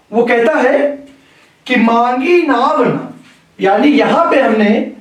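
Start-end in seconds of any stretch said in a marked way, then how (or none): 1.8-3.0 मांगी नाव न said slowly as one phrase, closing on न; pause after न. Shown as a demonstration. Teacher showing students how a comma changes meaning, slow demonstration. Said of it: "ना के बाद इस विराम चिन्ह का प्रयोग किया".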